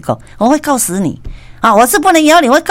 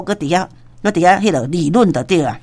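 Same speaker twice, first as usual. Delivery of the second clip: ordinary talk, nothing marked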